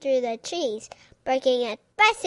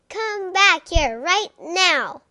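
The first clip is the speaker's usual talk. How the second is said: hollered; 5 semitones higher, 4 dB louder than usual. Acted. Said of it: "hollered Missus McNosh".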